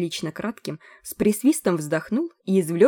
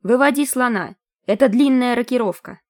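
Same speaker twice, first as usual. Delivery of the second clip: thin voice; 6 semitones higher, 5 dB louder than usual. A narrator's reading. Voice overheard in dream.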